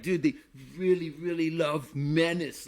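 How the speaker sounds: slow, drawn-out French-accented imitation; French accent, stretching the words. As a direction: lightly mimic a French speaker. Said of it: "French accent".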